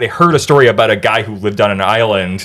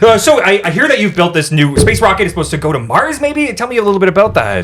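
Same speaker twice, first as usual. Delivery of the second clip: interviewer voice; 7 semitones higher than usual. Pretend. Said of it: "let's have a conversation with Elon Tusk".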